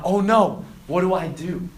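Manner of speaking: loud burst of mock panic; acted alarm, strongest on the first words; freaking out. Student invited to a sinful party, freaking out. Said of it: "you start freaking out".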